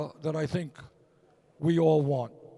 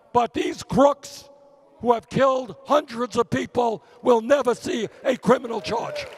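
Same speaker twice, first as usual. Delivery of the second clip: shouting; 3 semitones higher, 5 dB louder than usual. Real, not acted. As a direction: hammer it out in outrage. Senator's fiery campaign speech climax.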